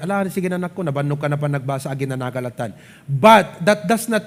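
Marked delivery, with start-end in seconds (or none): 0.0-2.7 considerate parent. Retold or imitated. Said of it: "your parents are very considerate".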